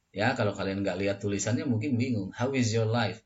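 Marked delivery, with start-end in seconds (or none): 2.3-3.2 "How is your life" run into one word. Shown as a demonstration. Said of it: "jadi seperti satu kata".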